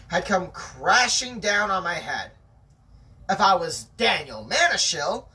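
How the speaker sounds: steady read-aloud storytelling voice; story narration. A narrator's reading. Narrator reading a chapter to a friend, storytelling voice. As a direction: tell the tale to your listener.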